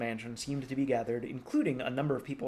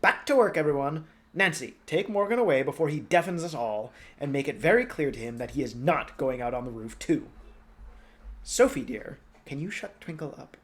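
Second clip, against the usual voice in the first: commanding; 2 semitones higher, 5 dB louder than usual. Acted. Princess Hilda ordering the household, loud commanding voice. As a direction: clap everyone back to work. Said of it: "clapping her hands and saying".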